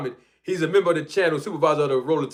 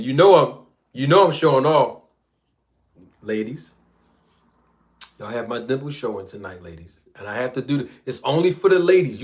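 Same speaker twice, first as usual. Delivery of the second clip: R and B voice. Pretend. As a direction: sweet-talk the ladies like an R and B singer. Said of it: "I wanna put my R and B voice on".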